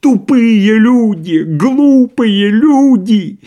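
high, loud, drawn-out insults; furious shouting. A narrator's reading. Doctor rages at his departing friends, shouting. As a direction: shout abuse at full pitch. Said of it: "продолжал кричать Андрей Ефимович".

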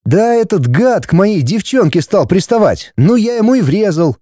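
put-on high-pitched sullen teenage boy. A narrator's reading. Son explaining the fight to mother, sullen. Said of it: "мрачно ответил Вадим".

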